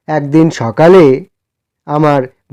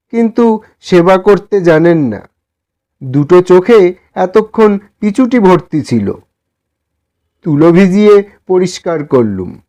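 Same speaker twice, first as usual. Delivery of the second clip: raised, pleading voice of a humble poor man; timid poor man; 5 semitones higher than usual. Acted. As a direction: ask shyly for a favour, a bit higher. Humble man tends dog. (বিনীত গরিব মানুষের কুণ্ঠিত অনুরোধ)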